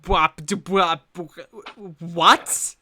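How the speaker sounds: shocked laughing what; stunned disbelief. Real, not acted. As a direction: caught completely off guard, laughing. GM stunned by news.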